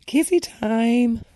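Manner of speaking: drawn out like teasing a friend; mock sing-song tease. Mocking the couple on screen, slow sing-song tease.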